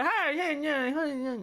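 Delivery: high cartoon Canadian voice, hammed-up; South Park Canadians. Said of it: "those Canadian comedians in, in South Park".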